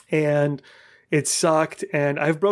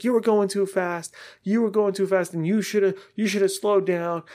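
higher-pitched, nagging accusation; imitated blaming; 5 semitones higher than usual. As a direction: mimic someone scolding a cyclist. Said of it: "blaming me".

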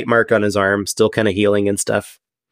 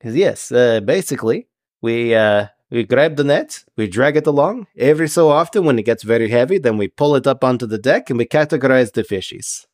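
stilted fish-man explaining the job; a hint of a formal sea creature, phrase by phrase; halting, matter-of-fact Triton; lightly voiced Triton. Game master plays the Triton.

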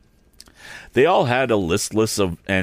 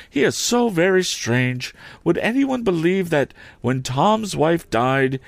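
higher, plaintive complaining lady; fussy lady; 5 semitones higher than usual. Acted. Camilla complaining to the relatives in a higher plaintive voice. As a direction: whine it higher like a fretful society lady.

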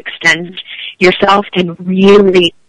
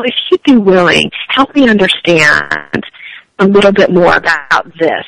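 slow, gentle asking; softened request; slower than usual. Shown as a demonstration. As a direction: soften it, ask for help slowly. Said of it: "I always recommend you take it on as".

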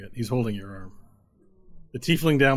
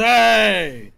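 very loud, much higher cheer; gang shout; 11 semitones higher, 11 dB louder than usual. Acted. Tiefling gang shouting back in agreement. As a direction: roar back like a mob. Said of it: "the rest of them goes".

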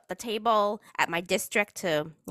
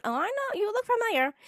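fake recognition; 11 semitones higher than usual. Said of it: "And I'm looking at her going".

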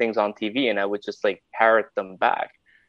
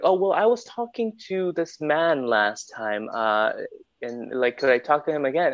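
higher-voiced, polite customer; phone caller; 4 semitones higher than usual. Customer asking support for the previous agent, higher-voiced caller. Voicing a customer who calls in.

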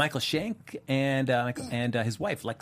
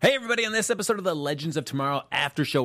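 bright loud welcome; excited host intro; 4 semitones higher, 4 dB louder, faster than usual. Real, not acted. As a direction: open the show with energy. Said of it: "show intro host opening".

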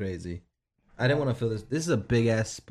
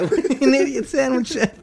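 mock Gordon Ramsay; 6 dB louder than usual. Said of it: "He's like".

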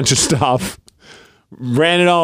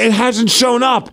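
high excited whisper-mock; 8 semitones higher than usual. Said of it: "I'm like".

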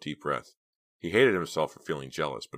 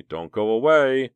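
calm; 7 semitones higher, 9 dB louder, slower than usual. A narrator's reading. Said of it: "Philip's voice said calmly".

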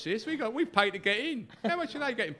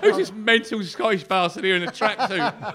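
mock manager, laughing; 4 dB louder than usual. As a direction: ham up the baffled boss while cracking up. Imitating Redknapp, laughing.

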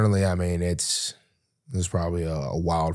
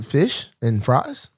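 slow, tentative fake London accent; hesitant mock London accent; London accent attempt; slower than usual. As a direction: slowly try out a London accent. Practising London accent phrases.

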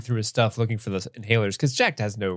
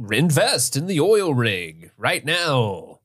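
salesman pitch; slower than usual. Retold or imitated.

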